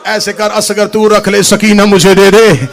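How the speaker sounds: loud pleading, rising to sung shout; plead, then break into song; weeping plea, building to a wail. A narrator's reading. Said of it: "रो के कहती". (रोती हुई फ़रियाद, आख़िर में ऊंची गाई हुई पुकार)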